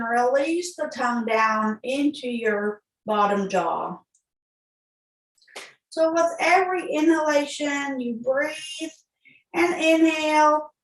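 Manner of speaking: measured, even breathing cues; guided meditation. Real, not acted. Yoga teacher leading a mudra with breath, calm guided meditation. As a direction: guide each inhale and exhale unhurriedly, pausing between.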